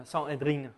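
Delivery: Sanhédrin said the American way; "Sanhédrin" with an American-style ending, "-drin"; American pronunciation. Shown as a demonstration. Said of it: "je vais faire, euh, à l'américaine".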